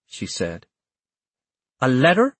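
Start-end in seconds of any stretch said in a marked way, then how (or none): 1.9-2.3 high-pitched puzzled question; baffled echo of the news; confused. A narrator's reading. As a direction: ask it in confusion, pitch lifting. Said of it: "with confusion".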